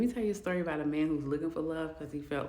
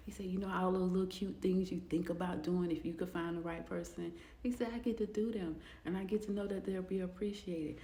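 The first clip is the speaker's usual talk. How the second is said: softer, hushed and heartfelt, dropping to a whisper; tender; 6 dB quieter than usual. Retold or imitated. Husband describing his marriage, soft and tender. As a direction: speak it like a quiet confession of love.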